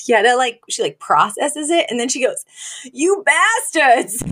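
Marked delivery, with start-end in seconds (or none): 2.9-4.2 slow, high-pitched mock outrage; mad. Grandmother learning she was put in a home, mad. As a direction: draw it out, indignant and higher. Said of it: "she's so mad about it".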